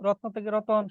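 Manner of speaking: রত্ন with joined tn, then রতন as ro-ton; inserted vowel. Shown as a demonstration. Teacher lists examples for class, rotno-to-roton pronunciation. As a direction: open the cluster of রত্ন into রতন. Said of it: "মধ্য স্বরাগম".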